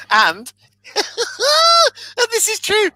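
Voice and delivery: high, helpless laughter breaking up the words; laughing while talking. Real, not acted. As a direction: struggle to speak through real laughter. Cracking up at own story.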